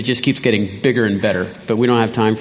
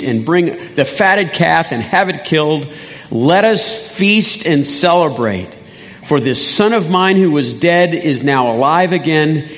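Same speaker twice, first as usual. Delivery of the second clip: rejoicing father; 3 semitones higher than usual. Acted. Father ordering a feast for his son, rejoicing. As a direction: celebrate with emphatic, lilting delight. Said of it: "He's too busy rejoicing".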